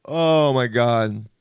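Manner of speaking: slow, drawn-out awe; overdone foodie rapture; mock gushing. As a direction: savour it with stretched words. Diner raving to someone else.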